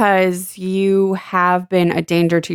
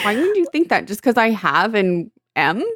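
mocking cheater voice. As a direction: tease it as the guilty boyfriend. Mocking the ex's defense.

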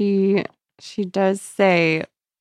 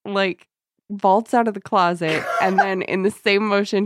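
ordinary talk

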